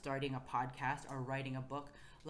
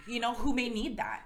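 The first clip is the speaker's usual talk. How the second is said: higher, louder, breaking into a laugh; funny delivery; 8 semitones higher, 8 dB louder than usual. Real, not acted. Host telling listeners who may need their gift, funny laughing protest. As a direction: blurt it comically high and loud. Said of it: "The way you said that".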